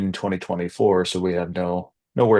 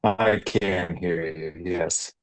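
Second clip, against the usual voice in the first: slowed down voice. Real, not acted. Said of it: "your voice is slowed down dramatically".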